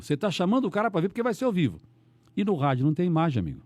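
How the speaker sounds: ordinary delivery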